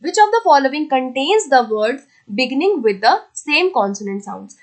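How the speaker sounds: deliberate dictation pace; slow question read. Shown as a demonstration. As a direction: dictate the question slowly to the class. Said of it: "question number seventeen आता है".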